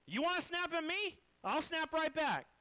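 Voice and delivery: loud, high threat, slowing at the end; snapping back. Retold or imitated. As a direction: bark it right back at them. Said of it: "That's what I did".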